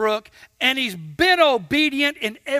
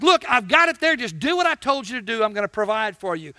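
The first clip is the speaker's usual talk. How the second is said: God reassuring; faster than usual. Retold or imitated. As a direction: settle him down quickly. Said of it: "God says".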